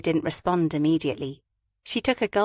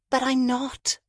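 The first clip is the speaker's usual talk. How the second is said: protesting; 7 semitones higher, slower than usual. A narrator's reading. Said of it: "Fabia protested".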